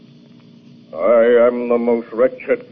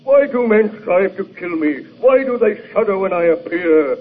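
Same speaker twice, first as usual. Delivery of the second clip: anguished outburst; 4 semitones higher than usual. Acted. Monster pleads with his creator.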